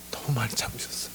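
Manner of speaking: soft, whispery admission; quiet awe at being forgiven; moved, hushed. Real, not acted. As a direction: let it sink to a humbled whisper. Humbled reflection on God's patience.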